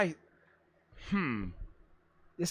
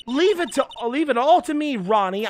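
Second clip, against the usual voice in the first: higher, eager promise; high sing-song lady; 5 semitones higher, 3 dB louder than usual. Acted. Desiree promising Ronnie to protect it, high. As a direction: promise it brightly, pitched up. Voicing game character.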